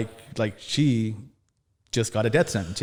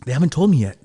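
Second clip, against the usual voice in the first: pressed out louder and urgent; urgent retold protest; louder insistence; 3 semitones higher, 6 dB louder than usual. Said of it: "And she's like".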